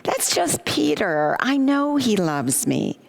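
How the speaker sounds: a hint of a daughter brushing off mom's worry; lightly voiced daughter. Daughter reassuring her mother about Peter, lightly voiced. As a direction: lightly play the daughter, drawing out the words. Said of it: "my daughter would say".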